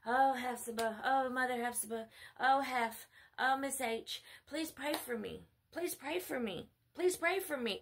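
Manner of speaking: mock pestering plea, rising in pitch; imitated pleading. Followers begging the preacher for prayer, mock pleading. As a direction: beg repeatedly, mimicking needy followers.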